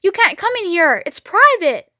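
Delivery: high, shrill rat voice; squeaky rat defending his turf; high rat voice, indignant. Acted. Rat guarding his cellar.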